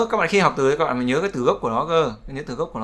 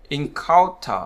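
encounter with the middle syllable stressed; stress on second syllable; much slower than usual. Shown as a demonstration. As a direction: lean on COUN in encounter. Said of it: "trọng âm rơi vào âm tiết thứ hai".

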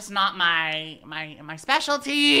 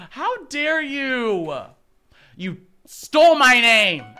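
loud playful accusation; mock outrage; 3 semitones higher, 9 dB louder than usual. Accusing a teammate of stealing her name, loud mock outrage. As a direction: accuse him in fake fury.

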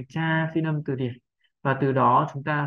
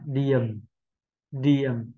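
"điểm" left unstressed, falling in pitch; unstressed syllable; 2 semitones lower than usual. Shown as a demonstration. Teacher showing learners the remaining unstressed syllable, unstressed. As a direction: let "điểm" drop without stress. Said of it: "âm không nhấn trọng âm".

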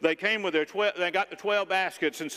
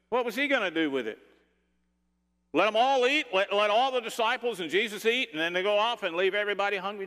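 higher, hurried, indignant questioning; incredulous mother; 5 semitones higher than usual. Acted. Mother challenging her boy about his lunch, incredulous. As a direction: pile up the questions in mounting disbelief.

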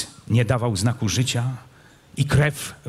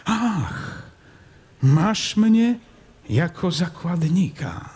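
mocking; 7 semitones higher, much slower than usual. Prince mocks his captor.

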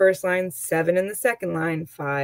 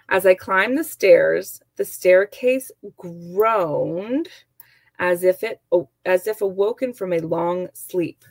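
slow, expressive read of an example sentence; reading aloud; 3 dB louder, slower than usual. Acted. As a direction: read it like a storybook line, slowing on groaned. Teacher reads example sentence aloud.

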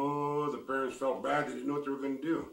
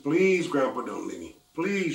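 begging; 3 semitones higher, 3 dB louder than usual. Acted. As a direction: beg grandpa not to leave. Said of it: "she begged him".

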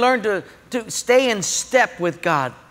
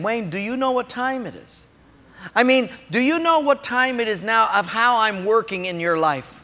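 lightly voiced, measured divine question; gently probing, in the speaker's own accent; God. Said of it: "it morphed into God's voice".

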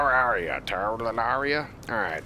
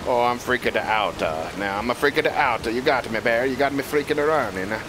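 mock Italian accent; cartoon Italian accent, playfully panicked; Mario; 3 dB louder than usual. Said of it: "This is, uh, Scary Mario".

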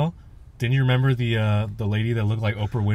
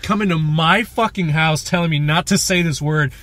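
mock angry; 5 semitones higher, 4 dB louder than usual. Man angry at people banning the word, mock outrage. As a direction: scold them higher and higher, hammed-up. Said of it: "me being angry at them".

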